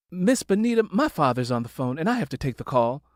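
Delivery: high, called across the house; calling out. Acted. Daughter calling from the kitchen to the neighbor in the living room, high call. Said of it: "shouted toward the living room".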